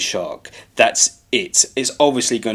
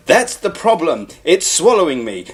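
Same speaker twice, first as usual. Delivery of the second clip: mock calm narrating; 3 semitones higher than usual. Heroine explains she is being swallowed, mock calm. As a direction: spell it out with mock composure. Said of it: "you don't talk like that".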